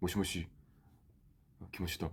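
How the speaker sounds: low, quiet tone in native language.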